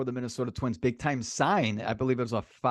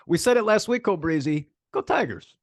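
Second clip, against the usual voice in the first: high, loud rallying cheer for the Tigers; excited cheer; 7 semitones higher, 5 dB louder than usual. Real, not acted. Cohost rooting for Tigers, excited high cheer. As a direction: cheer the team on, pitch jumping up.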